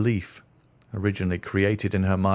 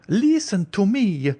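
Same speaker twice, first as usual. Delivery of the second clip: higher, anxious noblewoman's voice; the Countess; 11 semitones higher, 3 dB louder, slower than usual. Acted. Countess warning Franz away from the stranger, higher anxious voice. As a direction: plead as a frightened countess, slow on the last lines.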